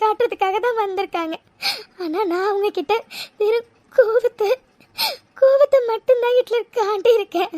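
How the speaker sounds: sobbing guilt, breaking on the words; crying. Acted. Mega to Hitler at the hospital, crying with guilt. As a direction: weep and plead to be forgiven. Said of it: "அழாதடி".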